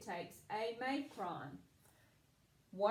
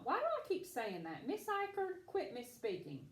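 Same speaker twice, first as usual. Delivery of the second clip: mock self-scolding; 3 semitones higher than usual. Teacher playfully scolds herself.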